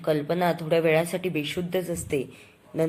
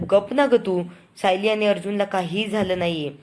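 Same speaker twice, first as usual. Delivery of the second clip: louder mock shout to hush her; father rounding on the daughter-in-law, louder; retold angry rebuke; 3 semitones higher, 3 dB louder than usual. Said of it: "Prataprao पुन्हा तिच्यावर धावतात".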